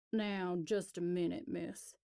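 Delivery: stiff, offended country man; affronted. Acted. Elias scolding the city girl on the phone, affronted. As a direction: bristle at being told what to do. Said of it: "clearly affronted".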